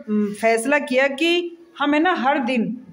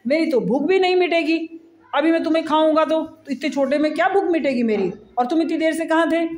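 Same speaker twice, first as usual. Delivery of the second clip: angry lion; 3 semitones higher, faster than usual. Acted. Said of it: "तो बहुत गुस्सा आ रहा था। कह रहा कि".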